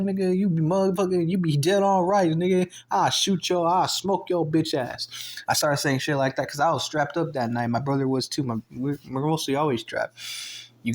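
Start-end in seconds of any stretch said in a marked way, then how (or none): 0.0-5.1 heated, higher-pitched trash talk; retold angry threat. Speaker threatening the stranger outside the store, angry. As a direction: act out a threat, easing down at the end. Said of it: "'Cause now I got mad".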